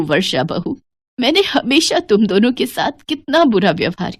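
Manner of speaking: sobbing, wavering apology that builds into hurt; tearful breakdown. Acted. Mother-in-law begging her daughters-in-law's forgiveness, breaking into tears. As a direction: plead tearfully, breaking off into sobs. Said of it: "फूट फूट कर रो पड़ती हैं".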